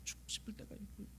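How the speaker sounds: hushed breath on "죽고 싶을"; whispered despair. Acted. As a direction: let it fall to a whisper. (속삭이듯 절망하며)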